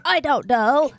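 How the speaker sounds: loud whisper. Pretend. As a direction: hiss it urgently under breath. Whispering in scary scene.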